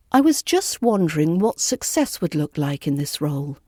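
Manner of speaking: "I was just wondering" said soft and flowing, not stiff; soft flowing question. Shown as a demonstration. Teacher shows learners a soft, flowing British question. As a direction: ease gently through the softener. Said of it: "It's soft, flowing, and it's not stiff".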